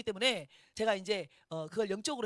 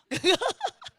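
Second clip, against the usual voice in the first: high, loud peal of laughter; burst of laughter; 10 semitones higher, 9 dB louder than usual. Real, not acted. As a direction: burst out laughing after the punchline. 남편 말을 전하고 폭소. (높고 크게 터지는 폭소)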